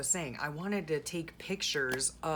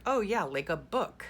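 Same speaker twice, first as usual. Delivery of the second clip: mock clerk voice; 5 semitones higher, 4 dB louder than usual. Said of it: "She was like".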